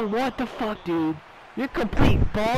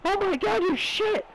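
high, urgent calls for the ball; excited shouting; 8 semitones higher than usual. Pretend. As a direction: yell for the pass.

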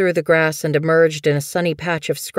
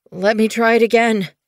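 high, urgent plea from an apprentice; begging; 6 semitones higher, 4 dB louder than usual. Acted. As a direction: beg for another chance, pitched up. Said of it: "he begged".

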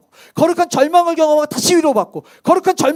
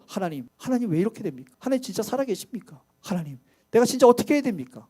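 hushed pleading prayer; 3 semitones lower, 6 dB quieter than usual. Retold or imitated. Imagined anguished prayer.

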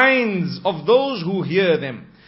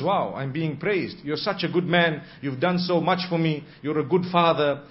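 soft, tender, lower pleading; gentle wife's voice; 3 semitones lower, 3 dB quieter than usual. Shown as a demonstration. Wife tenderly confronting her husband about a message, soft and low. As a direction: speak kindly to keep his heart open. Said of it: "there is a way of speaking".

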